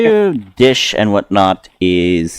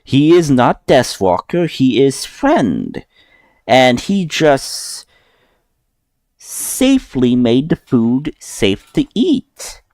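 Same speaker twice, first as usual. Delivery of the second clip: a bit higher, slow and deliberate broken speech; lightly voiced Goliath explaining slowly; patient Goliath guard; 5 semitones higher, slower than usual. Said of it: "he kinda looks at you and says".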